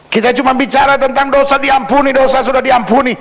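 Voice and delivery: high-pitched pulpit complaint; emphatic preaching. Acted. Preacher at full force. (berkhotbah tegas dengan nada tinggi)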